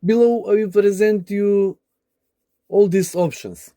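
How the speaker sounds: ordinary delivery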